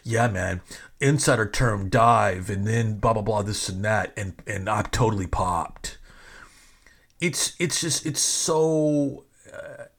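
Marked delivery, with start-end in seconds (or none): 0.0-6.0 lightly mocked fan-speak; wrestling fan. Host annoyed by insider lingo, mock wrestling-fan talk. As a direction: parody a jargon-dropping wrestling fan, slightly. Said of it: "Why do all wrestling fans talk like this?".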